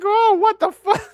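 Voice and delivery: high, loud mock shock; shocked reaction. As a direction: imitate her stunned gasp of disbelief. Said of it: "She's like".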